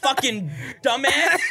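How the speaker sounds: drawn-out exasperated mock protest; slow, exasperated imitation of a stuck Santa; frustrated Santa. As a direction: strain through the words like a stuck, fed-up Santa.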